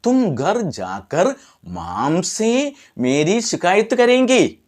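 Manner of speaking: put-on slow, high, wavering child's plaint; mock tearful. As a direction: act out a crying child's complaint, drawn out. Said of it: "കരഞ്ഞോണ്ട് പറഞ്ഞ്". (കരഞ്ഞുകൊണ്ട് പറയുന്നതായി അഭിനയിച്ച്, നീട്ടി)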